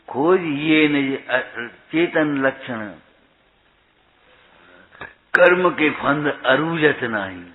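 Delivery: put-on slow, measured chant of an old verse; verse recitation. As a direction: intone each word of the scripture. Recites scriptural verse slowly.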